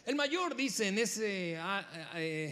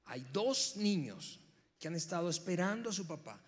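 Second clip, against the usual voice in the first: usual speaking voice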